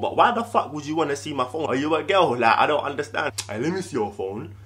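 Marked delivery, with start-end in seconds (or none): 3.5-4.5 fake-sweet request. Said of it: "It doesn't even sound genuine".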